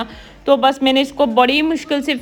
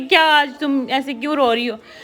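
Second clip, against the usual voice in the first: ordinary delivery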